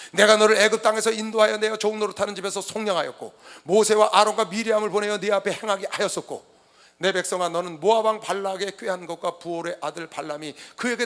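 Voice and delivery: loud, declaimed scripture; formal, projected Bible reading. Acted. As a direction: proclaim the verse like a summons. Reads scripture aloud to congregation.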